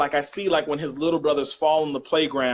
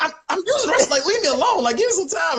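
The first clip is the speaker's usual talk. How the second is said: mock annoyed dad; 11 semitones higher, faster than usual. Dad in the bathroom telling his son to leave him alone, high and exasperated. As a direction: shoo the kid away, half-joking. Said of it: "He'd be like".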